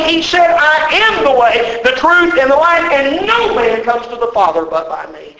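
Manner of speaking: rousing pulpit crescendo; preaching climax. Acted. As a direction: climb with each I am line. Quote builds to climax.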